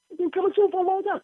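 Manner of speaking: mocking sarcasm. Real, not acted. Mocking the rapture cliche.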